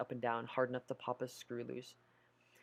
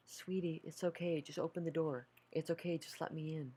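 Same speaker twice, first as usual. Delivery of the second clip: higher, honeyed plea to open the door; coaxing mother; 4 semitones higher than usual. Acted. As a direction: lure her in sweetly, like a mom. Mother coaxes daughter to open.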